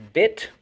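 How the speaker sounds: bit said alone, high and crisp; syllable called out. Shown as a demonstration. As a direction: pop out bit as the first syllable. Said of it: "So first syllable".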